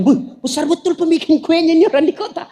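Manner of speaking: a villager's awed thoughts, lightly voiced; awed grandfather at the mall, lightly voiced; amazed villager. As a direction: marvel at the city like a country man. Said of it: "dia bayangkan".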